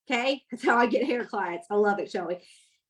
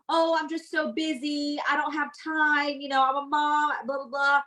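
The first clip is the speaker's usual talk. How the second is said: mock excuse-making; 3 semitones higher than usual. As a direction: imitate a too-busy customer making excuses. Acts out a customer's busy excuse.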